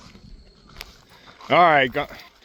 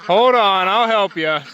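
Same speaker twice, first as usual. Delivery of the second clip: pitched-up pet voice calling the ducks; high coaxing animal talk; 7 semitones higher, slower than usual. Real, not acted. Freeing duck stuck in pen.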